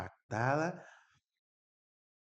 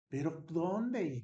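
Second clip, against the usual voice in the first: urgent question; 7 semitones higher, much slower than usual. Retold or imitated. Father demanding details.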